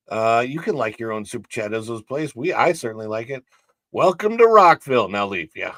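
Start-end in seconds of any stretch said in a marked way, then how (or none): 3.9-5.1 mock announcer.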